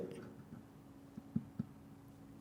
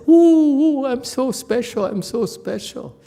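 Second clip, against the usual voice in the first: preen like someone who got lucky; a teacher mimicking a pupil's vanity; mock smugness; 6 semitones higher than usual. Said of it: "You say".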